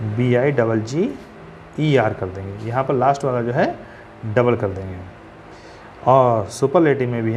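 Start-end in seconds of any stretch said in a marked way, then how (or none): 0.1-2.1 letter by letter: बी आई डबल जी, each letter apart and slow; spelled out slowly. Shown as a demonstration. Teacher spelling for students, slow and letter by letter. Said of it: "last वाले consonant को डबल".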